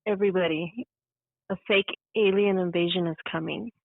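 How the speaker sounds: mild mock-ominous announcement, barely put on; half-hearted go at a scary warning; attempted scary voice. Shown as a demonstration. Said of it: "I don't think I have a scary voice".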